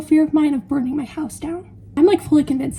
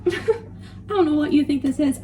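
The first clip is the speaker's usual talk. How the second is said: half-laughing mock outrage; slower than usual. Real, not acted. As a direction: laugh through the line. Mock indignation about nuts.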